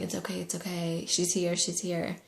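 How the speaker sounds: soft, soothing repetition; quietly reassure, lightly acted; retold gentle reassurance. Retold reassuring of crying partner.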